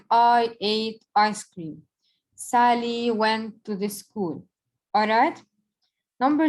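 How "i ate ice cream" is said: slow example read. Shown as a demonstration.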